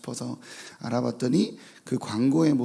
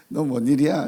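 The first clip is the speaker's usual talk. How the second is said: startled question; 3 semitones higher, 8 dB louder than usual. Retold or imitated. Startled parent questioning son.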